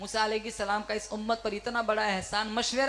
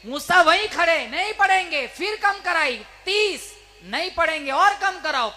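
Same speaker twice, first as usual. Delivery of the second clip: high, loud and quickening storytelling; preacher hammering the count, much higher and louder; rising excitement; 7 semitones higher, 8 dB louder than usual. Retold or imitated. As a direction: build the retelling to a fever pitch, shouting each round. Retelling the bargaining at the climax.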